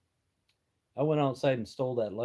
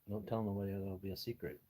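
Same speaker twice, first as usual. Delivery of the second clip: mock secret; 4 semitones lower, 10 dB quieter than usual. Jokes about his age secret.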